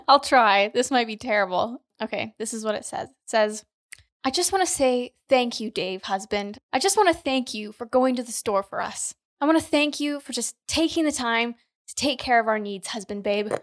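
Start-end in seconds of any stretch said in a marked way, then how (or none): 4.2-13.5 lightly hammed-up churchy prayer tone; best prayer voice. Reading the skit script to her husband in her best prayer voice. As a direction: pray over her husband like he's God, half laughing. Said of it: "Do it in your best prayer voice".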